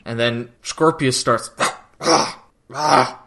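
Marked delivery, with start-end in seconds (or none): 2.0-3.2 imitated fit of rasping gasps; mock choking gasps. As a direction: choke out short gasps, acted.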